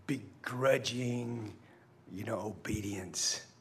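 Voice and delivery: slow, hushed near-whisper; soft and slow. Real, not acted. Pastor warns against grudging obedience, hushed and slow. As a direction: let it sink, hushed.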